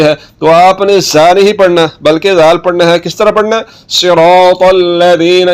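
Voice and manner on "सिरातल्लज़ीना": slow सिरातल्लज़ीना with 'th' as in 'this' in ज़ीना; soft zaal. Shown as a demonstration. Teacher showing the correct way, soft zaal. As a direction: stretch सिरातल्लज़ीना, no whistle. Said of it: "सीटी की आवाज़ नहीं".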